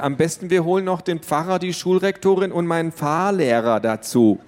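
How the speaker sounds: sarcastic. A narrator's reading. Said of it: "meinte sie aber nicht ernst".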